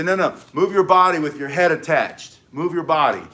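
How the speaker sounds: "move your body" said firmly, stressing "your"; correcting instruction. Shown as a demonstration. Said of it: "And then you say".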